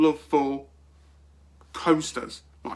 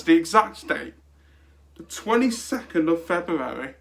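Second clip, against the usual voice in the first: normal talking voice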